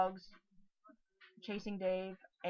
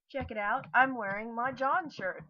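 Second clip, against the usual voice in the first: excited show-off; 4 semitones higher, 5 dB louder than usual. Real, not acted. Showing off shirt.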